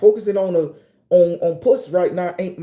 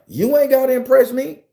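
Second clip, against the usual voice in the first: higher-pitched mimicry of a woman; lightly mock her insistent challenge, pitched up; imitated woman's come-on; 7 semitones higher, 3 dB louder than usual. Woman repeats herself to exerciser, imitated come-on.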